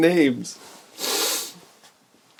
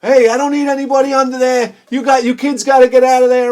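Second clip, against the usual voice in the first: gruff neighbor voice; 7 semitones higher, 5 dB louder, faster than usual. Retold or imitated. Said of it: "He's like".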